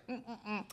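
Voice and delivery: very soft mimicked scooting hums; effortful little hums. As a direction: hum tiny efforts, imitating her. Imitates patient scooting down.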